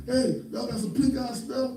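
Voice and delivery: high-pitched mock holler; retold hollering. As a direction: call it out across the room, imitating yourself. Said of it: "I'm in there hollering at people".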